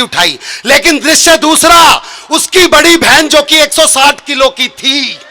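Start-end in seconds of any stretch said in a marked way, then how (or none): 2.3-5.2 slower, laughing half-shout on the setup; emphatic punchline. Shown as a demonstration. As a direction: push it out with a laugh for the big reveal. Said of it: "repeat of the line".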